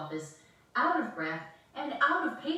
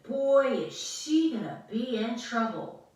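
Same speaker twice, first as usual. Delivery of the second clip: teasing; 4 semitones higher, 7 dB louder than usual. Acted. Brother teasing.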